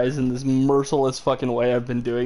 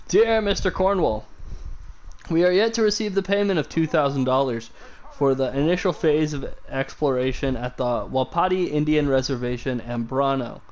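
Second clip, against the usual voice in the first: calm, even letter reading; soothing reading voice. Acted. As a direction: read it like an audiobook narrator. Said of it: "I have such a soothing voice".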